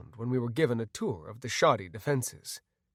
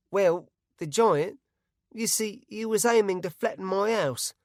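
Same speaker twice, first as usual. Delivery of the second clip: rustic Bart; 6 semitones higher, 5 dB louder than usual. A narrator's reading. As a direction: tell it haltingly and earnestly. Bart tells his story.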